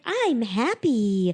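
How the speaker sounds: slow, airy, breathy "I'm happy". Retold or imitated. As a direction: imitate her dreamy breathy voice. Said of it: "breathy voice".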